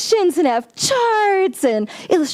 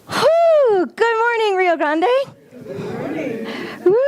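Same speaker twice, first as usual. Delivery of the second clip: big excited greeting; 10 semitones higher than usual. Real, not acted. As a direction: throw a beaming hello out to everyone. Greeting the congregation at start.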